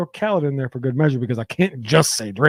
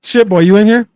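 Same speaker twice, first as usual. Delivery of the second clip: calling out; 8 semitones higher, 11 dB louder than usual. Real, not acted. Calling out to chat.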